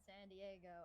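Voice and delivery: Americanized accent. Real, not acted. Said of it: "You said San Diego very Americanized".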